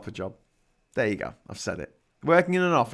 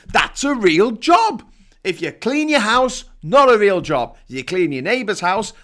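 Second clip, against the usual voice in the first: high, emphatic comic tirade; mock rant; 4 semitones higher, 4 dB louder than usual. Host explaining which chores count as jobs, mock indignant rant. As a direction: lay down absurd rules, punching each verdict.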